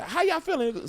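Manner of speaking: high, hyped crowd greeting; hype greeting. Retold or imitated. Comic greeting a corporate crowd, hyped. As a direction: pump up the room. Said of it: "I was like".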